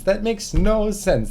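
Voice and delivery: outraged protest at English spelling; exasperated. Real, not acted. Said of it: "repeats in frustration".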